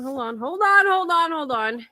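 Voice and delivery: breathless, laughing hold on; gasping after hard laughter; out of breath from laughing. Real, not acted. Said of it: "out of breath from laughing".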